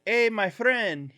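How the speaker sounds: slow, high friendly pitch; hat seller. Retold or imitated. Hat hustler greeting old snowbirds, slow high voice. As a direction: draw it out like a pushy vendor. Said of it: "And he was like".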